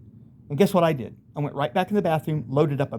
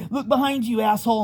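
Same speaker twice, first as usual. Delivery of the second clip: higher, mocking demon taunt; 7 semitones higher than usual. Demon taunting the cornered man, lightly voiced sneer. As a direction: sneer it like a gloating monster. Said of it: "one of them told me that".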